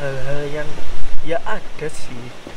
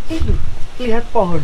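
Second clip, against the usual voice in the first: shouting over wind; 7 semitones higher, 6 dB louder than usual. Real, not acted. Windy mountain summit, talking over wind.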